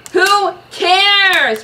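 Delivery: loud high dismissive shout; loud grumpy brush-off. Acted. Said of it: "Bruce shouted".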